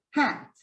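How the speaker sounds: "Hat" with lips spread wide, short bright a; stretched-lip hat. Shown as a demonstration. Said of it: "you stretch your lips, and you say".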